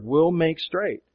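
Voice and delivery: "will make straight" said slowly and firmly; emphasized verb. Shown as a demonstration. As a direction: give "will make straight" slow, deliberate weight. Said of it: "the other thing that's emphasized".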